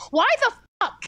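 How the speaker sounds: yelling. Real, not acted. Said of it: "Why, why are you yelling?".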